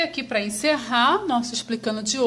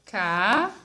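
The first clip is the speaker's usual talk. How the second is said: "casa" as a stretched ca, long pause, then za; syllable by syllable; 4 semitones lower than usual. Shown as a demonstration. Teacher separating casa for pupils, syllable by syllable. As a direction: split "casa" into two slow, separate syllables. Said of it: "eu falo devagar".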